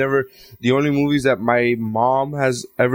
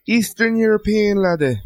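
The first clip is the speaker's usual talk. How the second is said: bad Eastern European accent; 7 semitones higher than usual. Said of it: "I don't even know what that was".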